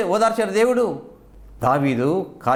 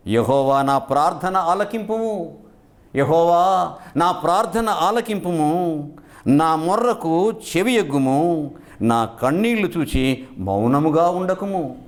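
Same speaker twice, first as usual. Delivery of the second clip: slow, measured psalm read like a prayer; solemn scripture reading; slower than usual. Acted. Preacher reads the psalm to the congregation, slow and solemn. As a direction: lift each line of the verse slowly to God.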